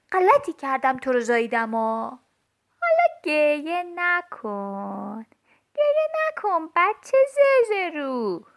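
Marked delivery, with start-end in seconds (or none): 2.8-8.5 slow, drawn-out mock comfort; slow sneering "گریه نکن", rising at the end; mocking hush. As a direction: sneer at the crybaby slowly. Child mocks crying doll.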